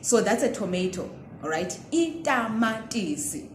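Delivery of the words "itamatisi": teaching the plain t in a word; unaspirated t demo. Shown as a demonstration. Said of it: "starting with the ta sound".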